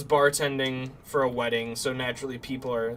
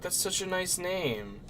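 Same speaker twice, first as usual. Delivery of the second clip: put-on drunk slurring; 7 semitones higher, slower than usual. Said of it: "slurring her words so hard".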